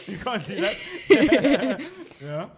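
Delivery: slow, high words through laughter; laughing. Real, not acted. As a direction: laugh it out, teasing. Laughing at cheeky question.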